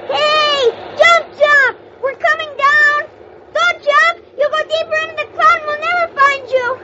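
high urgent call. Acted. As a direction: shout a warning from above. Calling out to elf.

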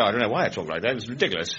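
lightly mimicked youngster; mild mockery of youth speech; young people's talk. Comedian mocking how young people talk, in a light youth voice. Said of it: "And they go up".

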